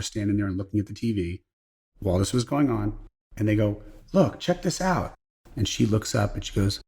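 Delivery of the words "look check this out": high, slow mock excitement; excited call. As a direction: point at the TV in amazement. Office staff excited at TV.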